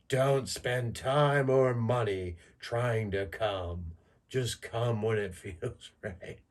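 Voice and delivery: slow, lightly voiced wise old owl. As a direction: play a sage owl giving advice, slowly. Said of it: "the owl's just like".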